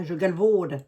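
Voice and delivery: light Lorraine regional accent. Shown as a demonstration. Host repeating her local word for viewers, Lorraine accent. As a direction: lean into a homegrown Lorraine accent. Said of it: "avec mon accent lorrain".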